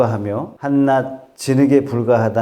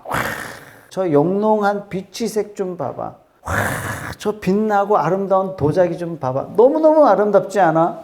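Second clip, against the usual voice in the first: acted onlookers gasping in wonder; admiring exclamation; 4 semitones higher than usual. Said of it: "막 탄성을 던집니다". (감탄하는 구경꾼 흉내)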